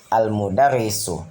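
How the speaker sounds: Al-mudarrisu with the l sounded before the m; alif lam pronounced. Shown as a demonstration. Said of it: "dibaca alif lam".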